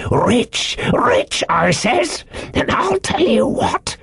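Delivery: high, heated, half-whispered insistence; hot insistence. A narrator's reading. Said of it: "he repeated the statement hotly".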